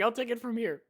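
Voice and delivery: breathy whispered aside. Real, not acted. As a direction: whisper it close.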